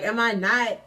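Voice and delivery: building retold outrage; going off indignantly. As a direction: act out going off on your ex. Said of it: "I just went off".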